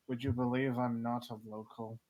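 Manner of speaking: dry, unreacting delivery; deadpan. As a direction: say it with no reaction at all. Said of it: "have the most deadpan face".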